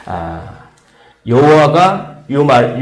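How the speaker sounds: ordinary talk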